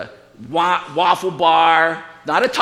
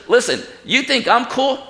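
raised-pitch angel putting a worshipper straight; lightly acted angel; 6 semitones higher than usual. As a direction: play the angel challenging his admirer, voice lifted. Voices angel correcting John.

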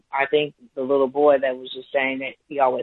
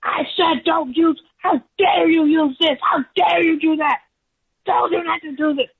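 mock furious teacher; 14 semitones higher than usual. Teacher snatching the whiteboard from the girl, high mock fury. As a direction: scold like an outraged teacher, pitched way up. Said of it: "He said".

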